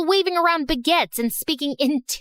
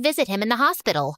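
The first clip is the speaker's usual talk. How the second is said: plain reading voice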